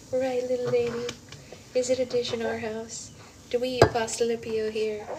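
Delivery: high, coaxing questions to an infant. Real, not acted. Asks the baby in baby voice.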